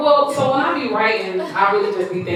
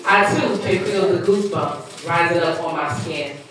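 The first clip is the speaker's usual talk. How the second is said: measured spoken-word reading; poem recitation; 3 semitones lower, 3 dB quieter than usual. Acted. Poet reciting own piece to listeners, spoken-word reading.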